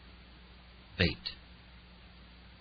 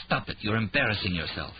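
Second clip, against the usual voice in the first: blurted; 2 semitones higher than usual. Acted. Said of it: "Sachs blurted".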